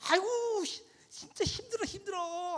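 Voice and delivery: very high-pitched mock child complaint; whining child. A young child voicing their own thoughts, high whiny complaint.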